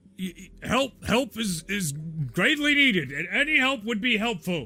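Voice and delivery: frantic stammering demonic voice. Voicing a digging figure calling out to a player: panicked voice. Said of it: "he's just panicked".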